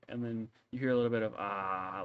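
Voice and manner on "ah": sigh. Acted. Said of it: "like, sighing".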